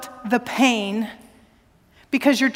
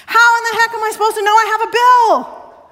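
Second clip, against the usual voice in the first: louder, higher exasperated demand; mock outrage at the power company; incredulous retold rant; 8 semitones higher, 6 dB louder than usual. Retelling exasperated phone complaint.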